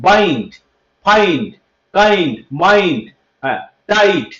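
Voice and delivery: বাইন্ড, ফাইন্ড with a full 'ai' glide; spaced word list stretching the 'ai' in মাইন্ড; 'ai' sound demo. Shown as a demonstration. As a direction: model টাইট with a clear 'ai'. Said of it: "আই উচ্চারণকে আমরা এইভাবে করি".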